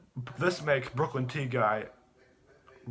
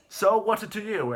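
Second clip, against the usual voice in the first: mock defiant retort; 7 semitones higher, 4 dB louder than usual. Mom snaps back at cop.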